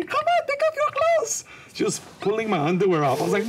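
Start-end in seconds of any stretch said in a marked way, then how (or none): 0.0-1.4 put-on squeaky high Filipino accent, louder; a pushy Filipino nurse nagging in her accent. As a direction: Filipino accent, nurse scolding him to shower. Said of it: "there was a Filipino nurse".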